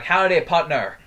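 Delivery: put-on cowboy greeting in a mixed Asian-English accent. Showing friends how the stranger greeted, mixed Asian-English accent. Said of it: "a weird mix between Asian accent and normal, like, English accent".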